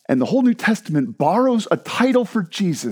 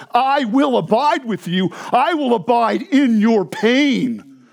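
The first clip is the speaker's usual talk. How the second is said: emphatic promise; 4 semitones higher, slower than usual. Retold or imitated. Voices Jesus's promise emphatically.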